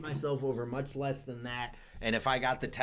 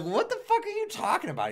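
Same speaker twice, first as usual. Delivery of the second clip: mock indignation. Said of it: "I was like".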